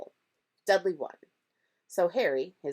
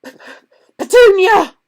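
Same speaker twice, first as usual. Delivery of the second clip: stammered then loud cry; gasping in shock; 20 dB louder than usual. A narrator's reading. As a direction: choke out her name in panic. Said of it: "he gasped".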